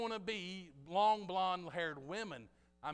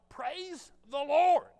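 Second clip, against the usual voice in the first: higher, louder, slow and stretched; loud praise; 7 semitones higher, 8 dB louder, much slower than usual. Real, not acted. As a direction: lift it up and draw out Lord. Preacher exclaims after scripture.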